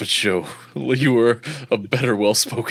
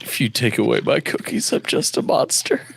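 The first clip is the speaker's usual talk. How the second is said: Cookie Monster voice. Retold or imitated. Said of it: "sound suspiciously like Alistair Cookie".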